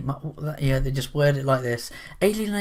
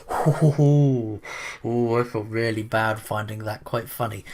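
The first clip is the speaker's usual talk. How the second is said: mock guilt; 3 semitones lower, 4 dB louder, slower than usual. Acts guilty listener after laughing.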